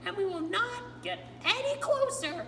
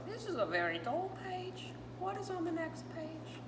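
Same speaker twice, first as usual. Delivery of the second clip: Grover voice; 2 semitones higher, 4 dB louder than usual. Acted. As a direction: play Grover, nervous and pleading with the reader. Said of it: "told by my friend Grover".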